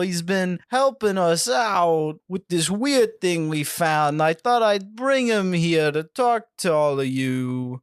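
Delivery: slow, slightly put-on alien-human voice; mildly hammed alien host; slow, light alien voice; alien impersonating a human. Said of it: "an alien doing a human impersonation".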